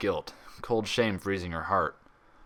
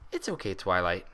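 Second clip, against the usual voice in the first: smiling. Acted. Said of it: "said with a smile".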